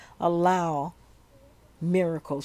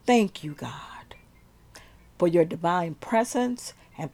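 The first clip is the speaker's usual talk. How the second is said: prayer. Acted. Prays aloud to God.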